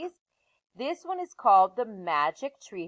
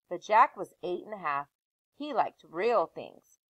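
put-on lively read-aloud voice for children; story narration; 2 semitones lower than usual. Teacher reading a chapter book aloud to her class.

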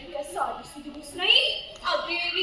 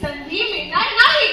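hammed-up wailing; 7 dB louder than usual. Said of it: "हे रडतायत की हसतायत".

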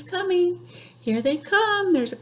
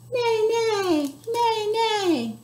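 lightly raised neighing; horse neigh; 7 semitones higher, much slower than usual. Pretend. Librarian answering what a horsey says, neighing. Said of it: "What's a horsey say?".

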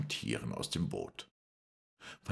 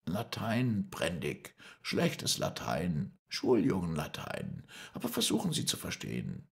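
higher-pitched man reasoning across a distance; Moreau, firm and controlled; 7 semitones higher than usual. Acted. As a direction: pitch it up and spell it out deliberately. (gehobene, beherrschte Stimme, eindringlich erklärend)

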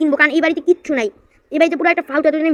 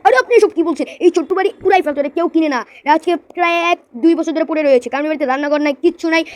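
scoffing seller voice; 2 semitones higher than usual. Acted. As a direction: brush off the buyer, raised and sharp. Seller scoffs at small house.

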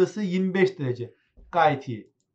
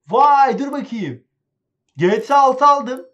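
loud, higher, delighted outburst; excited discovery; 4 semitones higher, 8 dB louder than usual. Real, not acted. Gamer finding new games in the store, excited. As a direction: exclaim over an exciting find.

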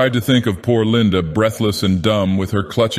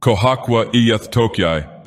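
menacingly derisive; 2 semitones higher than usual. Acted. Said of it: "the tone was menacingly derisive".

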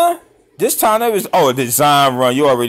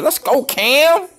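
excited cheer; 12 semitones higher, slower than usual. Real, not acted. Cheering the play.

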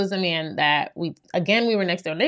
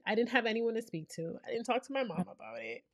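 normal talking voice

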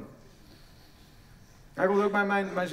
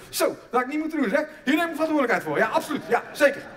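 mock loud apology; 6 semitones higher, 5 dB louder than usual. Midwife voiced apologising again, loudly.

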